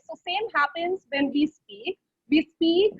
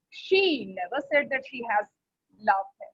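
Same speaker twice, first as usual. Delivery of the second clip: opening She raised and stretched, the rest dropping away; stress on She; 5 semitones lower than usual. Shown as a demonstration. Teacher showing how focus changes meaning, stress on She. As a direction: lean on "She", let the other words fall. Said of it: "if I focus on she".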